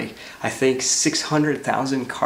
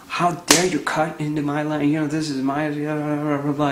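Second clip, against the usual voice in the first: lightly acted indignant driver, slightly raised; retold outrage, only mildly heated; mock angry; 3 semitones higher than usual. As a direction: imitate an angry driver trailing into blah-blah. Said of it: "he's, like, so angry".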